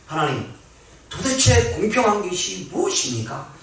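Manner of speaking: a complaint to God that builds up; rising retold lament. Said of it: "하나님 앞에 하소연했습니다".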